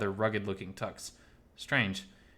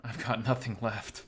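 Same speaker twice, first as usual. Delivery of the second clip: subdued admission of loss; dejected. Acted. Miles admitting to Oswald that everything is gone, dejected.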